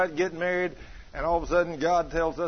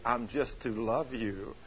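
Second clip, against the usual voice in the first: the Lord's voice; 7 semitones lower, 9 dB quieter, slower than usual. Retold or imitated. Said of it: "he told me audibly".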